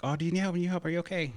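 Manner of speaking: concerned strangers. Retold or imitated. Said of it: "they were like".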